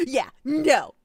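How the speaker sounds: mock echo. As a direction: throw it back at him. Mocks his "yeah, no.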